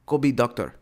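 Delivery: put-on accented shouting mom; yelling immigrant parent. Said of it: "whatever country accent this is".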